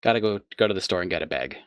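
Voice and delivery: quick line with "bag" leaning toward "beg"; Michigan pronunciation of bag. Shown as a demonstration. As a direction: rattle it off, saying "bag" almost as "beg". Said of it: "where people say beg".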